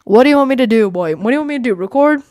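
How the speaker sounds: mock-annoyed what do you want from me; exasperated retort. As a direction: throw it back at them, fed up. Exasperated retort to imagined critics.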